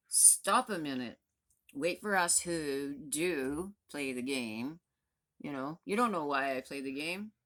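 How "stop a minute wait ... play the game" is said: slow, louder, every word weighted; slow firm demand. Real, not acted. Vlogger telling maskless shoppers to wait, slow firm and louder. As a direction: lay each word down slowly like an order.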